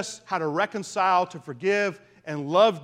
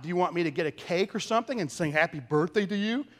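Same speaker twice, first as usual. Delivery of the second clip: sarcastic tone. Retold or imitated. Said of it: "in a rather sarcastic tone".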